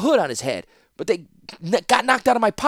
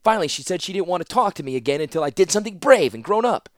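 higher, fast tumbling confession; flustered rush of excuses; 9 semitones higher, 4 dB louder than usual. Acted. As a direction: blurt it all out nervously. Teferi blurting anxious excuses.

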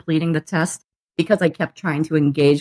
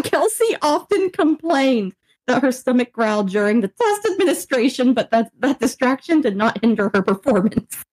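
reading aloud in a higher voice, close to laughing; fighting laughter; 5 semitones higher than usual. Real, not acted. Patient reading out her embarrassing evaluation report, fighting laughter. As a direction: struggle to get through the sentence without cracking up.

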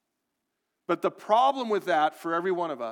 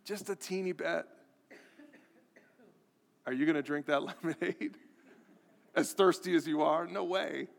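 teasing mom voice; 2 semitones higher than usual. Retold or imitated. Pastor re-voicing mom offering lemonade, mock-sweet. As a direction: sell the offer with a sly, sweet lilt. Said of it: "if I say it like that".

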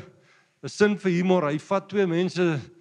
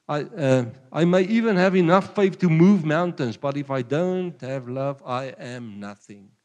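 louder solemn Bible reading, slowing at the end; louder preacher reading Corinthians, slowing on the last line; scripture reading; 4 dB louder than usual. Acted. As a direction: proclaim the verse to the congregation. Reads 1 Corinthians aloud.

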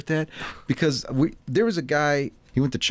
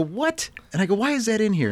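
retold annoyance; 8 semitones higher than usual. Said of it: "I'm getting mad at him".

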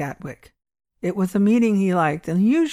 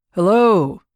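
suspicious; 6 dB louder than usual. Acted. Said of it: "returned Thompson, suspiciously".

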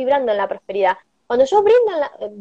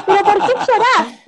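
a light, higher little-angel voice, gently asking; 9 semitones higher, 4 dB louder than usual. Retold or imitated. Little angel asking the crying young wife why she cries, lightly higher voice. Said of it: "me decía el angelito".

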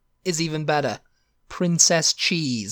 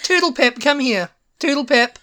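put-on calling a child; 8 semitones higher, 4 dB louder than usual. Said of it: "It's like".

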